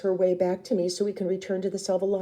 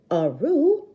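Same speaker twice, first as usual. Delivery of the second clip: raised voice calling after her; 8 semitones higher, 6 dB louder than usual. Acted. Older sister calling out to Rue. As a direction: call her back, a bit alarmed.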